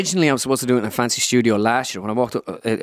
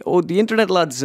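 lightly impersonated pundit, raised pitch; Joe Brolly; 7 semitones higher than usual. Acted. Pundit placing the caller's website, high impersonation. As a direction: put on his higher voice. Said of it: "he goes".

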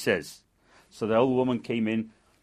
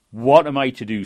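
louder, pleading cry for help; calls out, lost and frightened; desperate plea; 8 dB louder than usual. Acted. Woman begging the well for help, desperate and louder.

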